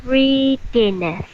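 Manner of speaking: "Readiness" said slowly, syllable by syllable; slow read. Shown as a demonstration. Student reads the word too slowly for the tutor, slow. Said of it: "Make it faster".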